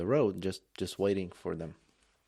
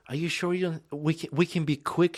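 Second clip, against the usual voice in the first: mock pleading woman; 8 semitones higher, 4 dB louder than usual. Imitating the woman's offer.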